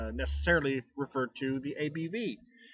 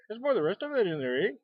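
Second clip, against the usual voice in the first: light Canadian accent with a higher 'pour' and a tagged-on 'eh'; mock Canadian accent; 5 semitones higher, faster than usual. Shown as a demonstration. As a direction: play up the Canadian 'eh' on purpose. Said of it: "sound like Canadian there".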